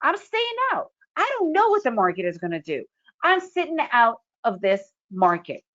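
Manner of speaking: lightly voiced wise trader; voicing a calm trader. Teacher voicing the trader who sits out, firm. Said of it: "You need to be like".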